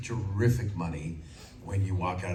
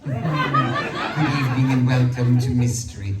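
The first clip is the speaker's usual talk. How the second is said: slow, louder, theatrical horror-host voice; Vincent Price impression; 3 semitones higher, 7 dB louder, slower than usual. Shown as a demonstration. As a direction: draw it out like a creepy host. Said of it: "I thought about Vincent Price".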